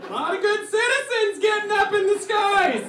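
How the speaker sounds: high, loud cartoon voice; high-pitched mock announcer shout; put-on New York airport guy. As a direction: holler it like an old-time local character. Bit voicing airport worker, accent.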